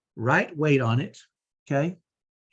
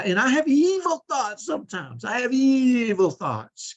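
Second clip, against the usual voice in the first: mock sinister; 10 semitones higher, 3 dB louder, slower than usual. Confessing evil thoughts.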